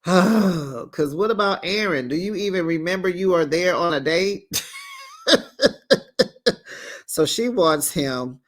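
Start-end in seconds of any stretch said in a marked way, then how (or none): 0.0-4.5 exasperated shout. Real, not acted. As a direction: yell at her for forgetting her date. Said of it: "yelling at Brittany on screen".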